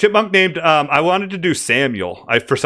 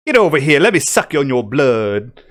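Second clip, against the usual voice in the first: mosquito voice. Acted. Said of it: "that's what the mosquitoes all sound".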